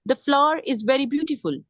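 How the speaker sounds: each word read out slowly for the class; slow dictation. Shown as a demonstration. Teacher reading the full example sentence to students, slowly. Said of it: "इसको खत्म करके भी तो कह सकती हूँ".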